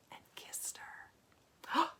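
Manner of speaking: slow reverent whisper; hushed whisper. A narrator's reading. Romantic kiss read hushed.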